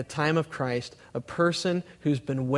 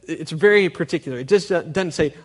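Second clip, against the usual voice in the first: ordinary talk, nothing marked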